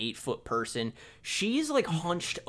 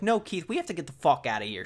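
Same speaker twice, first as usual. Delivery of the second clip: fast, mild mock yell; imitated yelling; 3 semitones higher, faster than usual. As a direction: rush it out in a half-hearted retold yell. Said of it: "She's, like, yelling".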